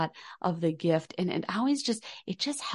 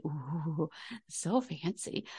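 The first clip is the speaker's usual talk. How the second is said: hushed ooh of pretend admiration; mock awe; 7 dB quieter, slower than usual. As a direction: softly play at being impressed. Admiring a product ingredient.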